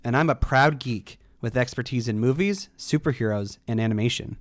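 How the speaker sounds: punchy host introduction; podcast intro read. Acted. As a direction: announce yourself to open the show. Scripted show intro.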